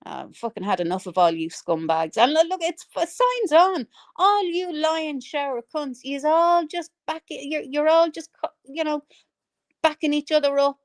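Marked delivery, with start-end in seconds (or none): 2.2-10.8 heated rant. Real, not acted. Accusing the whole lot of backing liars, heated.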